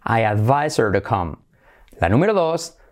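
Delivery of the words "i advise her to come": "her" without its H, linked to "advise"; dropped H. Shown as a demonstration. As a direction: run "advise her" together as "advise-er". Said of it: "Saltamos la H". ("her" sin hache, enlazado)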